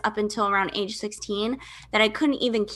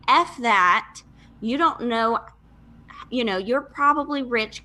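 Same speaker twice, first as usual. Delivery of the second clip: defiant inner retort. Retold or imitated. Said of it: "My first thought was".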